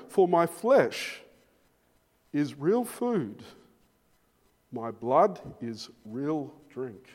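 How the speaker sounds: slow, deliberate scripture reading; solemn, measured proclamation. Acted. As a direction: let each phrase land slowly.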